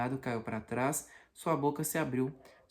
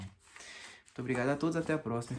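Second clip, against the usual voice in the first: drowsy and soft; tired, fading sign-off; sleepy; 4 dB quieter, faster than usual. Real, not acted. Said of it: "eu já tô com muito sono".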